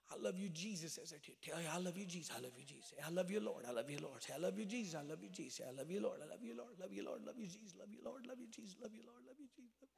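soft praise looping over and over, pitch gradually climbing; murmured repeated worship. Acted. Preacher voicing a worshipper at altar, soft repetitive praise. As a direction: keep repeating it softly, phrase upon phrase.

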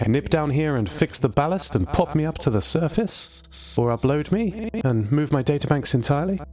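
a chatty, lonely submarine AI; lightly voiced, eager C O. C O hopes for rescue.

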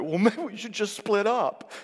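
high, laughing, half-joking line; mock-dramatic giving up; laughing mock exasperation. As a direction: toss it off with a laugh. Retelling an escalated fight.

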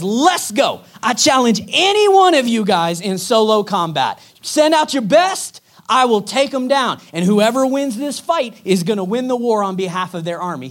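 loud, brash giant's taunt from across the valley; shouted challenge. Retold or imitated. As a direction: bellow the challenge up at the ridge. Goliath shouts at Israelites.

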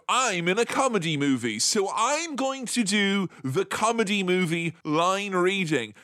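lightly mocked comic actor delivery; a hint of hammy movie-comedian reading; comedy line reading. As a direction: spell it out like a self-aware comedy line. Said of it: "they're both giving it the kind of".

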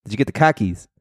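car keys with the r dropped, "kah keys", in a Boston-style accent. Shown as a demonstration. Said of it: "they're saying car keys at the same time".

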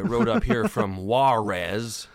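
put-on slow Spanish accent cowboy; a bandit telling where he rode from in a Spanish accent. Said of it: "that's my Spanish accent".

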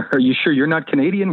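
laughing teasing question; laughing repeat. Real, not acted. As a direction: repeat the tease through a laugh. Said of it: "What's that?".

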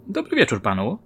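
lightly voiced woman, polite greeting; a hint of the detective woman saying good evening; policewoman's greeting. Policewoman greets the suspect actor, lightly voiced politely.

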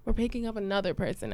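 composed cover for inner fury; restrained outward politeness. Retold or imitated. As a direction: keep the anger out and explain politely. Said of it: "but outside I'm like".

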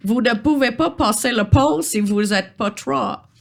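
put-on lightly British-accented troll official. Troll refuses passage at his bridge, mild British accent. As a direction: lay down the rule in mild British-accented French. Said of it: "charmant accent britannique".

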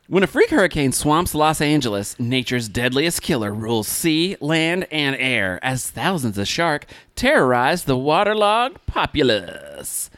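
deliberate movie-trailer narration, slowing at the end; hammy blurb reading; dramatic synopsis read. Acted. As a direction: stretch out the last words for mock drama. Reads the film synopsis.

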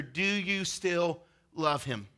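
slow and soft, letting it sink in; slow, soft question. Shown as a demonstration. Preacher slowing to pose the question softly. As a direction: ask it slowly and gently. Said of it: "And it's this question right here".

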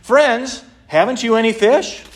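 high call from the shore. A narrator's reading. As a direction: call across the water to the boat. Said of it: "He called out to them".

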